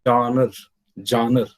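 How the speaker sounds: "genre" said as JAHN-uh, two syllables; pronunciation demo. Shown as a demonstration. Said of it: "The pronunciation is".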